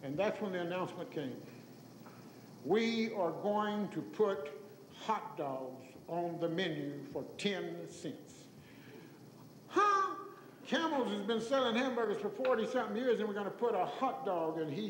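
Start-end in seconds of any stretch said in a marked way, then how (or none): 2.6-8.4 slow, measured retold announcement. Father announcing the new menu item, slow and deliberate. 9.7-10.1 high, loud incredulous huh. Retold or imitated. Storyteller reacting to the hot dog news, incredulous.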